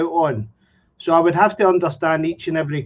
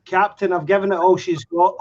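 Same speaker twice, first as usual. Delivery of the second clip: Scotty impression. Shown as a demonstration. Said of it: "You are as good as Scotty".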